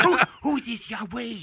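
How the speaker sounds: high, odd frog-god voice. Retold or imitated. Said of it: "that impression of that frog god".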